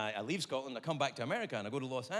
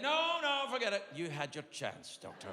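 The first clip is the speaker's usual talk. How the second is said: indignant refusal; 4 semitones higher than usual. Retold or imitated. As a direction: turn the doctor down haughtily.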